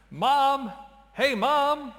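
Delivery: high, loud call to Mom; yelling across the room. Acted. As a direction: shout for Mom from another room. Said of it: "Calvin, stop yelling across the house".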